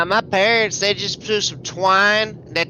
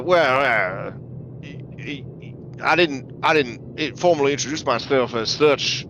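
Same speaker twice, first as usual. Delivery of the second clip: mustache twirling villain; 7 semitones lower, 4 dB quieter than usual. Acted. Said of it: "he kinda twirls his mustache".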